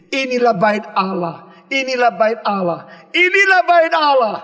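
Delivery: mock boast. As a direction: parody the proud people's slogan, rising each time. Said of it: "Jangan kata di dalam hatimu".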